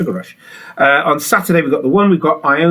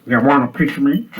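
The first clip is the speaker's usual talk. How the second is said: tough guy picking a fight; fighting talk. Shown as a demonstration. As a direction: say it like you're squaring up. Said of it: "you got to say it in that voice".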